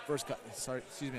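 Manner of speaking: talking through hiccups; hiccuping mid-sentence. Real, not acted. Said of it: "I have the hiccups now".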